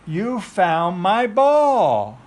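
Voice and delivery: delighted praise. Real, not acted. Delighted with toddler.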